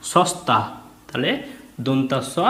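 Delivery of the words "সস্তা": সস্তা said whole, pitched higher; joined word. Shown as a demonstration. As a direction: blend into সস্তা. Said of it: "এটাকে ভেঙে ভেঙে দিয়েছে দেখো". (শব্দটি জুড়ে উচ্চারণ)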